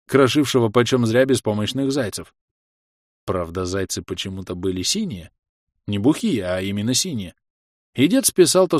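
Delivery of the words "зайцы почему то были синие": plain reading voice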